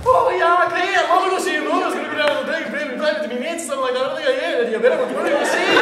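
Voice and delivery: high, loud, hammed-up Irish brogue; thick Irish accent. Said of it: "funnier if he does".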